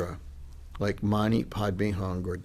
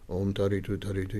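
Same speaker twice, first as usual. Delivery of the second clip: quick mantra demo; 2 semitones lower, 4 dB quieter, faster than usual. Shown as a demonstration. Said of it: "The first round is for you".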